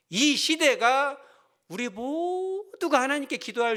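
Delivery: loud, high, very slow proclamation; fervent preacher's cry; preaching at full force. Real, not acted. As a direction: lean into it like a sermon climax. Preaching climax.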